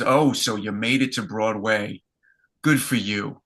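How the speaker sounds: light Bronx accent impression; a hint of a Bronx accent, kindly. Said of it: "in her beautiful Bronx accent, which I'm gonna butcher now".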